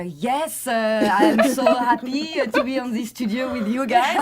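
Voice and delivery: hammed-up French accent practice. Shown as a demonstration. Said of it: "practicing my French accent".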